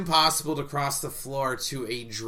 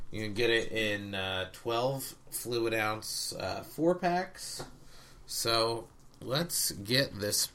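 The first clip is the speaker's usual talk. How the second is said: slow, deliberate segment host intro; slow show host read; slower than usual. Acted. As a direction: announce the review like a show host. Hosts beer review segment.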